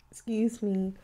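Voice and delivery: coughing into fist; muffled behind hand; through covering fist. Real, not acted. Seen 5: Gloved fist held at mouth while coughing and saying excuse me.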